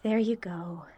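soft whispered reassurance; whispering. Acted. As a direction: breathe the words gently. Calming friend in dark.

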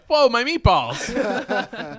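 bear voice. Pretend. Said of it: "it was like".

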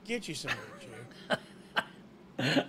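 deep movie trailer tagline; low announcer voice. Pretend. Tagline voice for sponsor.

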